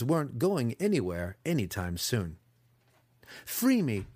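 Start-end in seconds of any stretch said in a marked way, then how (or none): 3.4-4.1 high, earnest plea; urgent, heartfelt request. A narrator's reading. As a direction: plead sincerely to be released. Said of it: "Alton said earnestly".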